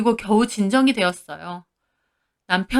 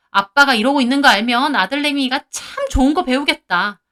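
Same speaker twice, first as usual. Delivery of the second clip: yelling at husband; 3 semitones higher, 3 dB louder than usual. Retold or imitated. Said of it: "남편에게도 소리쳤습니다".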